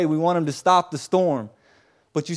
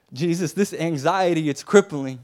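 louder, troubled cry to Jesus; acted desperate prayer; anguished plea; 4 dB louder than usual. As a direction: plead under a crippling weight. Voicing a troubled believer crying out.

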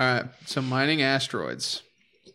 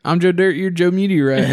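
movie quote; 5 semitones higher, 6 dB louder than usual. Acted. Quoting Joe Dirt movie line.

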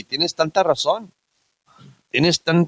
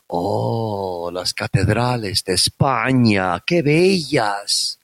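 put-on swooning gringa girl; 6 semitones lower, slower than usual. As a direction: sigh it out like a charmed tourist. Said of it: "Y luego me decían".

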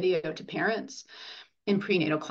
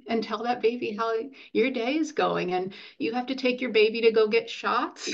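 ordinary delivery

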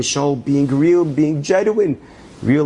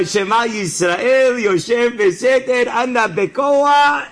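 desperate last prayer; 8 semitones higher, slower than usual. Retold or imitated. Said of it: "Say, uh".

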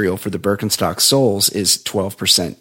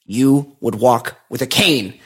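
slow, measured pronouncement with pauses; imitated dead seriousness; slower than usual. Shoe seller corrects customer about flat feet, very seriously. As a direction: deliver it like a solemn diagnosis. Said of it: "He's, like, really serious".

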